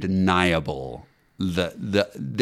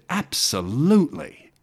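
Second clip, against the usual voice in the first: higher, eager retelling with sparkle; boyish delight; 7 semitones higher than usual. Retold or imitated. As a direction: imitate a thrilled yes, stretched out. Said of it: "his eyes sparkled, ... a ten-year-old boy".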